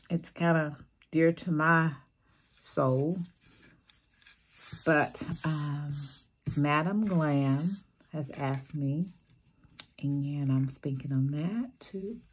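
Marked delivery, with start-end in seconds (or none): 4.8-12.2 hoarse, losing her voice; raspy, strained voice going. Real, not acted. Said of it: "I'm losing my voice".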